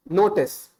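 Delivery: "notice" said with a hard retroflex Indian T; Indian-accented "notice". Shown as a demonstration. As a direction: Indian English notice, crisp T. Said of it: "If I say the word notice in my, uh, strictly Indian accent".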